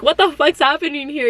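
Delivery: retold bewildered outburst through laughter; laughing disbelief. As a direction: let it crack with a laugh of disbelief. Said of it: "I was like".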